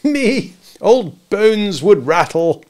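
high, loud, slow mock old man; mock scandalised. A narrator's reading. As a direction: ham up the creaky old bones. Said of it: "pretended to be scandalised".

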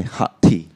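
HOT with an unrounded "ah"; "haht" for HOT; American hot. Retold or imitated. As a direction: imitate the American vowel in HOT. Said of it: "instead is they say".

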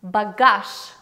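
Багаж said clearly as bagash, stress on the end; Russian word demo. Shown as a demonstration. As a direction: model the word Багаж for the class. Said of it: "and we say багаж".

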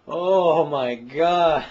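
loud, drawn-out amazed exclamation; slow it right down in shock; stunned oh my God. Real, not acted. Pulls gunk from drain.

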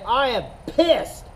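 slow, pressed pretend anger; a hammed-up grumble of anger; mock angry. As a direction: act out being pissed, slow. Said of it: "If I was pissed, I'd say".

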